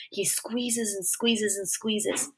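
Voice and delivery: very slow, fading whisper; strangled whisper. A narrator's reading. Boy being choked by his father, slow whisper. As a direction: whisper it slowly, as if losing air.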